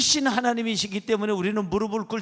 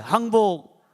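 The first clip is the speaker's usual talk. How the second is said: louder, drawn-out prompt; call for repetition; 5 dB louder, much slower than usual. Shown as a demonstration. Pastor leading congregation in repeat-after-me, firm call. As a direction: call it out for others to echo. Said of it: "따라하세요".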